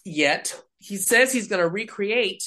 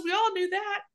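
pastor quoted; 4 dB quieter than usual. Retold or imitated. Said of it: "He goes".

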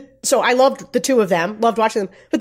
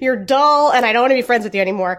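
put-on Irish accent; faster than usual. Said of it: "Sarah's doing a spot on Irish".

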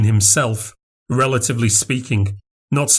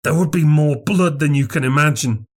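a creepy higher voice for the little man; odd little bearded man; 5 semitones higher than usual. A narrator's reading. Little man in the cinema whispering eerily to Craven, higher voice. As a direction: pitch him up and strange, a hushed oddball.

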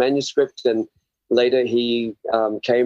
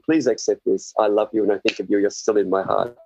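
loving offering; 3 semitones lower than usual. Acted. Contrasting loving offering, acted out.

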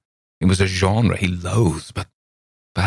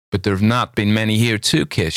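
put-on higher, innocent surprised girl; naive exclamation; 5 semitones higher than usual. A narrator's reading. Girl answers Campbell's accusation, naive and surprised. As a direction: say it without guile. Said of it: "she exclaimed naively".

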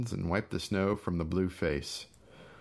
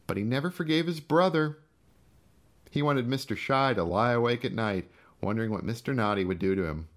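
menacing taunt; 5 semitones higher than usual. Acted. Gus gloating to his brother about the crash, higher. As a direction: gloat over the old revenge.

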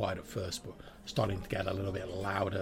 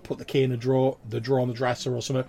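loud, raised friendly barmaid; 4 semitones higher, 10 dB louder than usual. Acted. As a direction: reassure him loudly as the barmaid. Barmaid advises.

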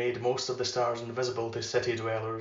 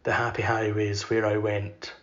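poem recitation. Acted. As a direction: let each line of verse hang in the air.

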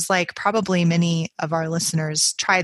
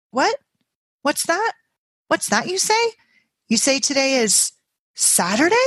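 much higher, bright sudden turn to glee; sudden surprise; 9 semitones higher than usual. Acted. Peggy Ann learns it is Saturday, suddenly cured and cheerful. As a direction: snap out of illness, delighted.

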